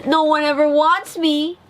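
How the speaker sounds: high, sorrowful little voice; soaked duckling lamenting he has no home; tearful duckling. A narrator's reading. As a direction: near tears, lonely. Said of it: "with a tear in his eyes".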